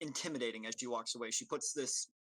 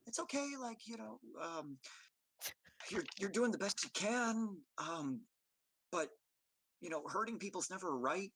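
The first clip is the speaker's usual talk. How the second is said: muttering back gently; 6 semitones higher than usual. Acted. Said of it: "hear her kinda muttering back".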